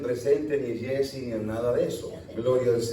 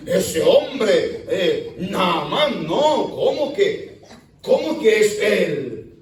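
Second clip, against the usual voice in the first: words broken by real chuckles; laughing while talking; slower than usual. Real, not acted. Preacher chuckling at the proud general in the river, laughing. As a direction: laugh through it, amused at the general's fall.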